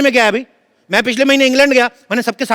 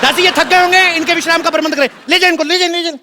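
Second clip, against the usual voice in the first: royal command; 5 semitones higher than usual. Acted. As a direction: play the pompous king giving orders. King ordering his maid.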